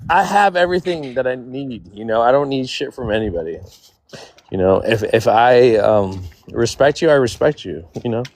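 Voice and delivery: a little tipsy, loose and rambling. Real, not acted. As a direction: talk like you've had a few drinks. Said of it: "I'm a little tipsy".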